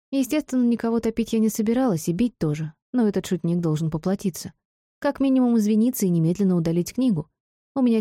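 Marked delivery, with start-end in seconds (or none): none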